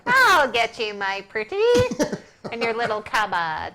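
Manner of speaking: witch voice. Pretend. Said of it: "give the witch laugh now".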